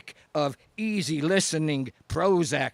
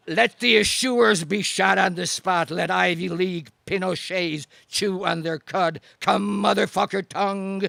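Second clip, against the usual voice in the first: rousing declamation; 3 semitones higher, 3 dB louder than usual. Acted. Poet rallying the audience at the climax, loud declaiming. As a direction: whip the crowd up, line after line. Slam poem rising to climax.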